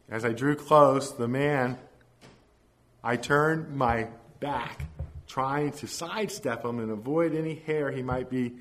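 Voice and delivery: measured, emphatic story reading; story narration. A narrator's reading. Preacher reads congregation a story of a ragged man, storytelling. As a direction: read the tale out with deliberate pauses.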